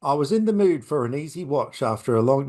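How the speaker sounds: lightly put-on UK accent, reading a friend's review; botched imitation of a UK accent; attempted UK accent. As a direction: mimic a friend's UK accent, not quite getting it. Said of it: "that's not your accent".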